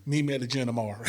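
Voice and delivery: high, laughing through the words; laughing retelling. Retold or imitated. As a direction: giggle out the story.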